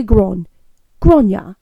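"gron" rhyming with yawn, then "Gron ya"; demonstrated Irish name. Shown as a demonstration. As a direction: sound out Gron ya in two easy parts. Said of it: "If you can say yawn".

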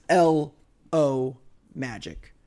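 "L O Magic" slowly, each part separated; clear enunciation. Shown as a demonstration. Host repeating the promo code for listeners, "L O Magic" slow and clear. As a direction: draw out "L", "O", then "Magic". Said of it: "I'll try and be clear".

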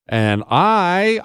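ordinary delivery

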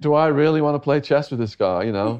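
laughing through the words, half-disbelieving. Real, not acted. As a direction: chuckle while you say it, tickled by the idea. Laughing at prospect of chess.

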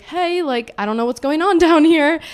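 high, laughing mock guy voice; imitating him. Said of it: "he was like".

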